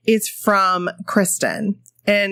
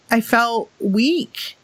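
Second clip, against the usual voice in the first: slow sincere; much slower than usual. Real, not acted.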